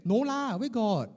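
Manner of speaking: high, protesting modesty; hammed-up bashful denial; shying away from praise. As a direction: deflect the compliment straight back. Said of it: "We shy away".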